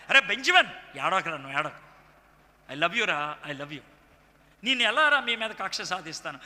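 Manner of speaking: acted loving reassurance. Joseph telling Benjamin he loves him, tender reassurance. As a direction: reassure a younger brother tenderly, easing off. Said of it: "ఆ విధంగా ప్రేమగా మాట్లాడాడు".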